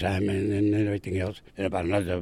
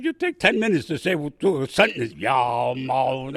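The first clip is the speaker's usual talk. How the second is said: mock drawl; 2 semitones higher, 5 dB louder than usual. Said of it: "everything was a moan".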